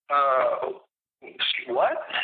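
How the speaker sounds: half-whispered and stunned; whispered disbelief. Retold or imitated. Biker answering Brian, whispered and stunned. Retold reply to taunt.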